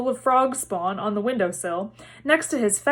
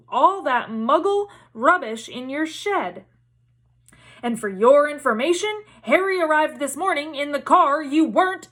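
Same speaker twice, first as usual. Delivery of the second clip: furious accusing shout; shouting wife; 5 semitones higher than usual. Acted. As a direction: tell him off at full volume. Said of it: "shouted Missus Weasley".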